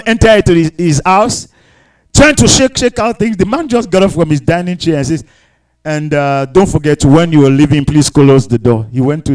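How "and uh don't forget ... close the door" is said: low, offhand acted request; unbothered, low-voiced mock casualness; nonchalant. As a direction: toss it off as if to a house guest. Acts unbothered man addressing a demon.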